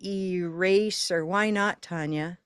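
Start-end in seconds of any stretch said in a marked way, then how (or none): 0.0-1.2 ERASER opening on a drawn-out EE; careful stretched eraser; long first vowel. Shown as a demonstration. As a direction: say eraser as ee-RAY-ser, lingering on the ee. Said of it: "even though we say maybe".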